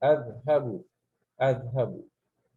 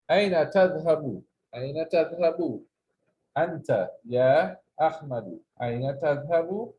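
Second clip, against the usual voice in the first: model sentence; faster than usual. Shown as a demonstration. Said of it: "Say after me".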